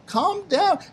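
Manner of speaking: very high, stretched-out falsetto pleading; a squeaky little official begging everyone to calm down; city clerk calming a crowd. Retold or imitated. Clerk begs the rioting crowd to chill out, squeaky and high. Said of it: "he was like".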